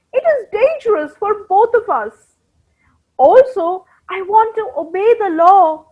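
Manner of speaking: a hint of kind, gentle refusal. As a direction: let your friend down kindly. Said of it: "In a kind voice".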